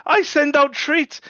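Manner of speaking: a playful royal boast; slowed grand repeat. Acted. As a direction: stretch it out like a proclamation.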